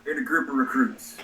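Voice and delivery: lightly voiced old man; a hint of a gruff old veteran. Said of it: "let me get my old man voice".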